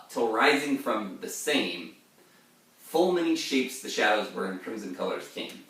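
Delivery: lightly heightened poetry reading; poem reading. Acted. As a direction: read the stanza with weight. Reads poem aloud in lecture.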